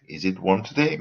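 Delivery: yes-no question tune climbing on "today"; rising question intonation. Shown as a demonstration. Teacher quotes a yes-no question, rising on "today". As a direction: lift "today" at the end. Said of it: "the intonation goes up".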